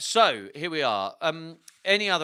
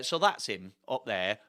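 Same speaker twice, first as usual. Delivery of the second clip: ordinary delivery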